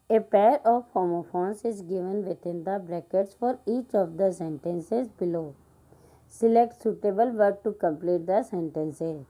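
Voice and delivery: slow, careful classroom reading; slow read-aloud. Acted. Teacher reading an English example sentence slowly to pupils.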